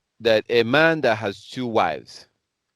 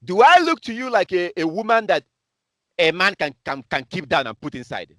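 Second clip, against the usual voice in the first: mock woman's voice; 8 semitones higher than usual. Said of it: "She's saying that".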